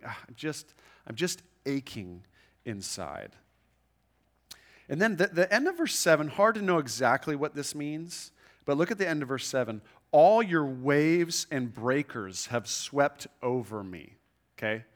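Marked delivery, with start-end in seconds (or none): 0.1-3.4 voicing inner ache. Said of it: "that kind of feeling". 10.1-14.2 slow scripture reading. Acted. Reading psalm verse.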